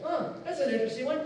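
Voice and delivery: half-laughing snobbish musing; smug disbelief. Pretend. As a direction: act puzzled and superior about the neighbor's sign. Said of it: "and you're like".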